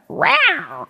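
high mock tiger roar; a playful little tiger growl. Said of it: "I wanted to make a tiger noise".

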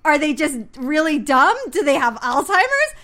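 loud, incredulous questions; mock exasperation at a silly show; retold disbelief. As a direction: demand answers in animated bafflement. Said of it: "Like, I'm like".

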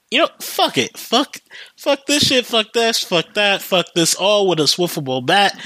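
hammed-up quitting rant; acted fed-up rant. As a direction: go off on the boss in a mock outburst. Acted worker going off on boss.

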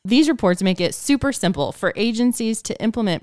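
upbeat scripted sponsor read. Acted. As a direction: sell it like a podcast ad. Reads sponsor copy.

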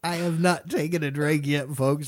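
tearful laughing talk; laughing so hard he's in tears; words pushed through tears of laughter; crying with laughter. Real, not acted. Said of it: "I'm in tears".

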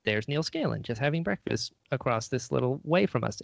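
ordinary talk, nothing marked

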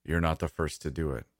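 subdued, sullen dad. Acted. Dad outside the child's door afterwards, sullen. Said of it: "my sullen dad's voice say".

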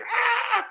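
high laughing mock scream of riders stuck on top; imitated coaster scream. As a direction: screech it like a stranded rider, half laughing.

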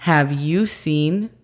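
slow careful English repeat. Shown as a demonstration. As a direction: say it again slowly. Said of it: "pero sería".

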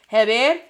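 Heber with an H and eh vowels; Spanish phonetics. Shown as a demonstration. Teacher trying Spanish phonetics, Heber as heh-BEHR. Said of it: "trying to pronounce it with Spanish phonetics".

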